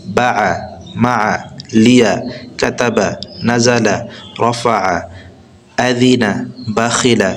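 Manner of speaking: a steady recited list of words, one after another; reading the word list. Acted. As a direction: read each word out clearly for learners. Reads the whole word list. (শব্দগুলো একে একে পড়া)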